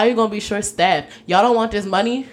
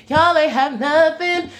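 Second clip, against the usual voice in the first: exasperated; 7 semitones higher, slower than usual. Real, not acted. Exasperated repeat.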